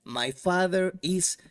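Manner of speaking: "My father is reading in the park" said slowly; teacher modeling the full sentence. Shown as a demonstration. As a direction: read the example clearly for the learner. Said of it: "añadimos el complemento".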